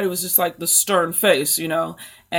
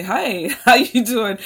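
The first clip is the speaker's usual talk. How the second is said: imitating him; 4 semitones higher, 6 dB louder, slower than usual. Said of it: "he's gonna lean over and say".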